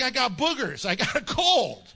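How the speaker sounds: loud, emphatic punch on the last word; mock-indignant comeback; exasperated retort. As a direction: protest it like it's obvious. Retorts to a scolding believer.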